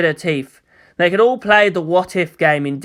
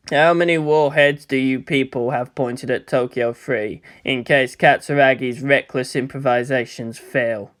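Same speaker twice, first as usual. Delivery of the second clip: cold commander; 5 semitones lower than usual. Acted. Cold commander voiced low.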